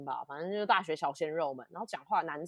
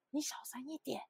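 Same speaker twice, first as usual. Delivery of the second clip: much softer, quick hushed warning; hushed aside; 7 semitones higher, 8 dB quieter than usual. Retold or imitated. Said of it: "很小声的跟他讲".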